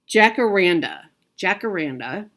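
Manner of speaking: "jacaranda" said out distinctly, then repeated; careful pronunciation. Shown as a demonstration. Vlogger showing viewers the name a friend taught her, careful pronunciation. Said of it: "she helped me pronounce it".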